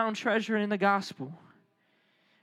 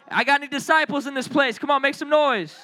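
raised, high hype call; pumped-up preacher shout; rallying the crowd; 4 semitones higher than usual. Real, not acted. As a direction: call out to fire up the room.

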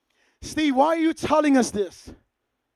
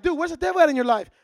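blunt quick question; faster than usual. Retold or imitated. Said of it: "we'd be like".

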